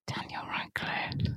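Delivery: cheeky whispered aside. Real, not acted. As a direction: whisper it like a naughty secret. Cheeky dig at the actor.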